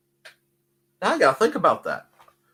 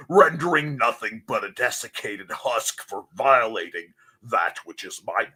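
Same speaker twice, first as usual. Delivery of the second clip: mock villainous threat; 2 semitones higher than usual. Mock threat, snaps out with "I mean, what?.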